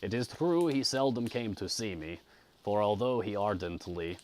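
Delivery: measured audiobook reading; story narration. A narrator's reading. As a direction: read a classic novel aloud with care. Reads the novel aloud.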